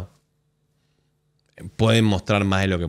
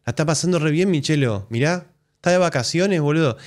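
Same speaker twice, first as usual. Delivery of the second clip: sarcastic; 5 semitones higher than usual. Pretend. Mocks crying fan's audio.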